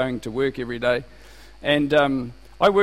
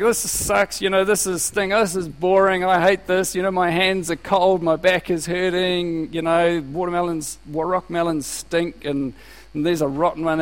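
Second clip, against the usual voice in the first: grumbling; 2 semitones higher than usual. Retold or imitated. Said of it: "I was grumbling about it".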